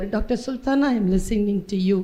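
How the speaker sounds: male device voice. Retold or imitated. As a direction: speak like a smart speaker. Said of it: "ஆம்பளை குரல்ல பேசும்". (ஆண் குரலில் மெதுவாக பேசும் கருவி)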